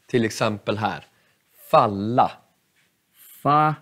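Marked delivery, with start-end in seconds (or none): 1.5-2.3 falla with short A and doubled L; model word falla. Shown as a demonstration. Teacher showing a double consonant, short A. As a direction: snap the A short in falla, hold the L. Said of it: "och dubbel konsonant".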